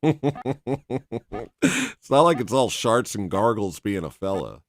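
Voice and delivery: slow, laughing through the words. Real, not acted. Streamer cracking up at his own joke, laughing. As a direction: laugh it out slowly.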